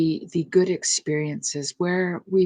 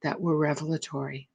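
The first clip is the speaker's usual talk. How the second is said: calm, unhurried meditation voice with pauses between phrases; guided meditation. Real, not acted. Meditation leader quietening listeners in God's presence, calm guided meditation. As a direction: settle listeners gently, phrase by phrase.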